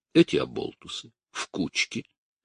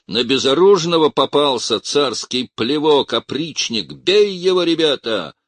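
loud, rising to a high yell; rally the crowd against him; shouting from the corner; 9 semitones higher, 6 dB louder than usual. A narrator's reading. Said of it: "Из-за угла кричали".

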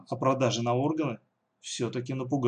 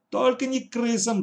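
much higher panicked cry; terrified wail; 10 semitones higher, 3 dB louder than usual. Acted. Katya wailing in terror about the rats, much higher pitch. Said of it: "завопила Катя".

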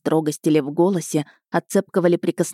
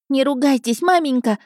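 put-on high boyish squeal; 8 semitones higher than usual. A narrator's reading. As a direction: plead with mother in a high yelp. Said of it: "заверещал парнишка в картузе". (визгливая мальчишеская мольба)

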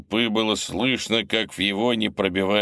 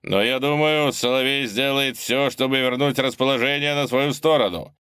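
booming announcer; 5 semitones higher than usual. Acted. Commentator continues broadcast.

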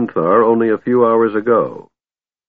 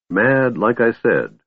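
slow, offhand shrug of a line; shrugging dismissal; 2 semitones higher, slower than usual. Acted. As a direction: toss it off, unbothered and slow. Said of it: "the Lord shrugged".

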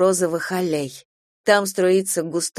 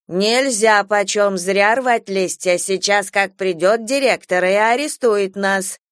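stern warning; 2 semitones higher, 3 dB louder, slower than usual. Acted. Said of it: "сурово предупреждает бабушка".

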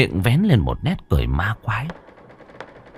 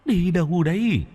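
ghostly question; 10 semitones higher, 3 dB quieter than usual. A narrator's reading. Ghost asks where he goes.

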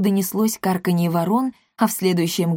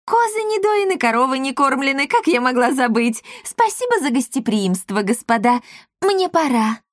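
much higher, rushed panicky excuses; panicked matchmaker; 6 semitones higher than usual. A narrator's reading. Matchmaker flees the house, high and flustered. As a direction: gabble your way out.

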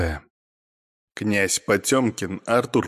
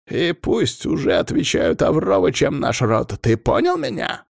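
high-pitched, forceful scolding; irate, insistent clan head; exasperated tirade; 6 semitones higher than usual. A narrator's reading. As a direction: lecture an idiot subordinate angrily. Clan head loses patience, lectures.

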